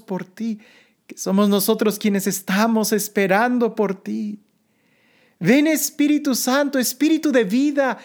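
earnest, rising litany prayer; prayerful invocation. Acted. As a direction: plead gently, building with each call.

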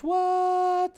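very high, held disbelieving what; shocked what. Real, not acted. Streamer hearing the actor saw the film, high stunned what. Reacting to surprising news.

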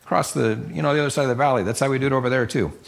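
high, eager voice of the crowd nodding along; excited audience chiming in agreement; agreeing villagers. Retold or imitated. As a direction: pitch way up like eager listeners. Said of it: "they'd have been going".

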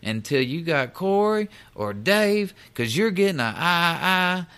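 a mock angry shout that climbs high on Dave; retold yell. Supervisor yelling after the rep as he walks out, imitated angry shout. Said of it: "and he yells at me".

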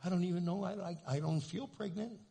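puzzled, stumbling over the start; unsure. Acted. Imitating pregnant women who doubt it, unsure. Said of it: "Sometimes they go".

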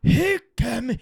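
lightly hammed Scottish lyric; Scottish accent. Retrying the Scottish lyric bit, light mock Scottish.

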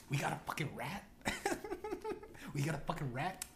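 laughing, menacing gangster line; a loose Departed Nicholson growl; Jack Nicholson impression. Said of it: "he turns into Jack Nicholson".

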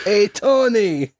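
slow, high mobster greeting; Jersey mobster voice. Pretend.

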